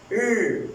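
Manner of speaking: bare र with no vowel after; say r not ra. Shown as a demonstration. Teacher shows र as a bare consonant. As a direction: clip र short with no vowel. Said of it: "इसको हमने रा नहीं बोलना".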